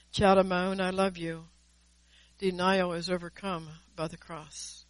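measured, solemn prophecy in God's voice; prophetic word. Acted. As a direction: speak as God calling his child home.

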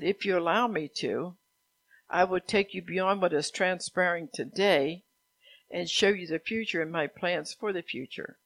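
measured, emphatic proclamation; prophetic proclamation. Acted. Preacher passes on God's promise to lead, proclaiming. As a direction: read it out as a message from God. Reads out God's words to congregation.

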